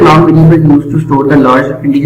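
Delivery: slow, word-by-word dictation pace; reading out the definition. Shown as a demonstration. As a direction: read each word out slowly for the class to copy. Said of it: "इसमें लिखा है".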